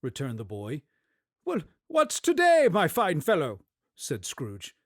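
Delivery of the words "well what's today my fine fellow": cheery call. Acted. Scrooge calling to the boy.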